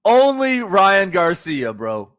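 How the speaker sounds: drawn-out, slow exclamation of disbelief; amazed disbelief. Real, not acted. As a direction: stretch the words out, marvelling. Exasperated reaction to the clip.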